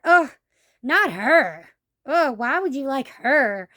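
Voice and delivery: imitated disdainful groan, drawn out; lightly acted slow disapproval; mock disgust. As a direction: imitate friends sneering at the choice. Mocking friends' disgusted reply.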